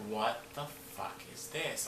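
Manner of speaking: slow, soft, stretched-out bewilderment; hushed disbelief. Retold or imitated. Standing alone in the black room, hushed disbelief.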